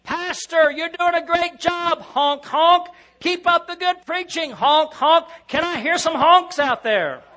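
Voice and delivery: high, loud goofy goose cheer; hammy honking cheerleader voice; silly clown. Pretend. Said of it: "Perhaps they're honking".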